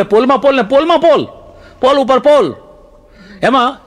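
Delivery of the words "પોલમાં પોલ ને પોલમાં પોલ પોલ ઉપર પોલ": higher Surti take on "પોલમાં પોલ"; playful, raised-pitch Surti accent. Shown as a demonstration. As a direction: mimic a Surti saying "પોલ". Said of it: "સુરતી શું બોલે?".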